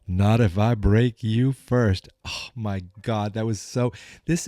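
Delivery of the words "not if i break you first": slow heroic one-liner; a hint of action hero; hero line. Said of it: "you hear the voice".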